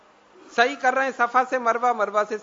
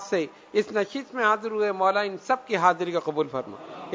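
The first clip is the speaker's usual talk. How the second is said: lower-pitched prayer of supplication; supplicatory prayer; 5 semitones lower than usual. Real, not acted. Preacher asking God to accept the gathering's prayers, supplicatory prayer. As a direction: lead the congregation in earnest supplication.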